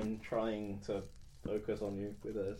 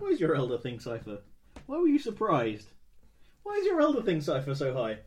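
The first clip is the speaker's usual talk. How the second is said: higher, louder demanding questions; loud suspicious challenge; 4 semitones higher, 8 dB louder than usual. Real, not acted. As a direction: press the GM hard, voice rising.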